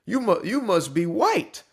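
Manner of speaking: put-on sneering voice of the critics, slowed at the end; a hammed-up voice of the critics; mocking critics. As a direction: parody the people who accuse him. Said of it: "what they're saying is".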